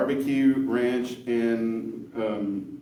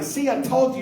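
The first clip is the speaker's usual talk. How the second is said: higher and louder told-you; mock told-you; 13 semitones higher, 6 dB louder than usual. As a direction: throw it back at him, pitched up. Woman's told-you in joke.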